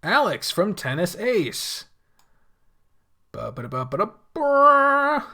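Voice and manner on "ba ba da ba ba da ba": Solid Snake impression. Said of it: "My excuse to do a Solid Snake impression".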